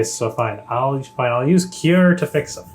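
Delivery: exasperated, grudging concession; grudging agreement. Real, not acted. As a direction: give in with reluctant emphasis, rising on the cure. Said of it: "You sound so excited about it".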